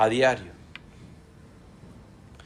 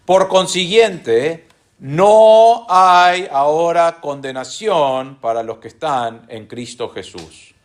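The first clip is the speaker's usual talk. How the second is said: measured pulpit reading of scripture. Shown as a demonstration. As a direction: read the passage aloud with weight. Reads Romans eight aloud.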